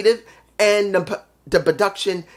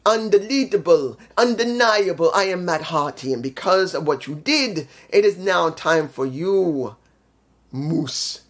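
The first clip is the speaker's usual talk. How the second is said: mock-dramatic wrestling promo, slowed in places; a hint of Matt Hardy's theatrical promo voice; imitating Matt Hardy. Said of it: "And Matt says".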